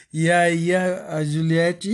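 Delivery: slow words through laughter; laughing. Real, not acted. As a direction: talk while cracking up. Laughing while telling story.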